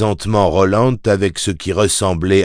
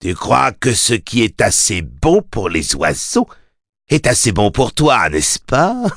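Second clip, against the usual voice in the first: higher, mocking fiend's taunt; infernal voice; 4 semitones higher than usual. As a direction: sneer it like a gloating demon. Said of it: "lança la voix infernale".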